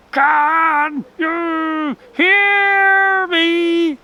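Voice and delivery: high, loud, eerie howling wind voice; ghostly storm voice. A narrator's reading. The storm wind moaning words at the rabbit, eerie and loud. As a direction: let the wind itself moan the words.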